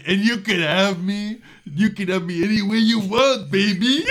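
seductive voice. Retold or imitated. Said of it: "He's like".

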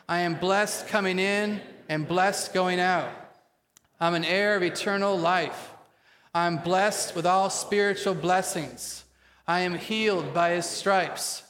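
rousing, measured confession led for the congregation; attitude of faith. Shown as a demonstration. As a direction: declare each line boldly, with spunky conviction. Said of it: "say it today with an attitude of faith".

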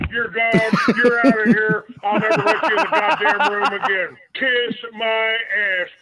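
angry. Real, not acted. Caller throwing prankster out.

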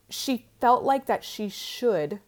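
"should" set apart and leaned on; stress on should. Real, not acted. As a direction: lean on the word "should", then hold back. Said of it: "I wanna emphasize that word should".

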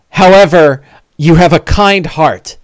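slow, measured consoling delivery; lightly voiced gentle sage; kindly companion. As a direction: philosophize slowly and kindly. Bing gently consoles the player.

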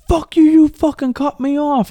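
hammed-up enraged stranger shouting; angry driver. Retelling the driver who cut him off, mock furious yell. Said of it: "And he's like".

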